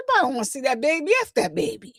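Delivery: a quick, careless brush-off; rapid dismissive quote. Retold or imitated. Showing viewers exactly how the commenter tossed it off, fast and dismissive. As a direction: rattle off "Nobody wanna see that baby" very fast and offhand. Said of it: "That's the way they said it".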